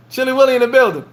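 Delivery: high, sing-song shout-out; hype call. Real, not acted. Repeating the welcome for Will, high hype call. Friend Will walks into room.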